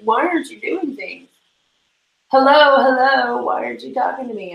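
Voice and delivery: lightly voiced nagging chat; hint of a demanding viewer; impatient viewers. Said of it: "a billion people like".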